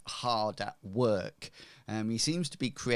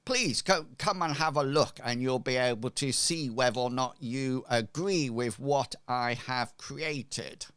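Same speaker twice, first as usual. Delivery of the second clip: blacksmith; 3 semitones higher than usual. Acted. Blacksmith invites visitors to see what he created, lightly acted. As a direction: usher them in, slowing at the end. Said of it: "he says".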